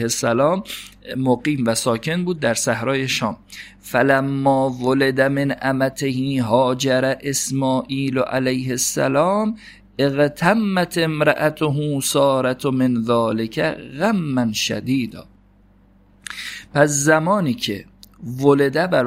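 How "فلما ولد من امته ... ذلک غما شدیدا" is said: slow, measured recitation of the Arabic passage; reading Arabic text. Acted. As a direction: read the classical text slowly and carefully. Reads Arabic source text aloud.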